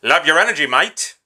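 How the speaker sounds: "Love your energy, mate" in a light English accent, "mate" said "mite". Shown as a demonstration. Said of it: "Do I need to say that in, like, an English accent?".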